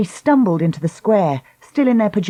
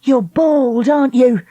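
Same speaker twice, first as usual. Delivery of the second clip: taunting; 7 semitones higher, 4 dB louder than usual. Acted. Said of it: "Lucy asked".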